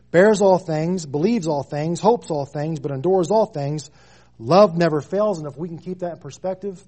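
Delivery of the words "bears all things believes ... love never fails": building preached climax. Acted.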